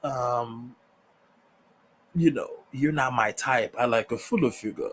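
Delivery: a hint of a dismissive Lestat; casual mock Lestat, barely shifted from own voice; Lestat impression. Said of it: "that's my Lestat impression".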